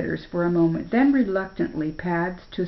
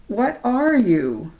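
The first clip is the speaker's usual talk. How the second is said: curious bear; 4 semitones higher, 3 dB louder, slower than usual. Acted. Bear questions the boy.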